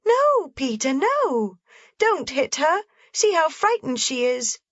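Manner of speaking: high, pleading cry of terror; terrified scream. A narrator's reading. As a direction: beg him not to strike. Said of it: "screamed out in terror".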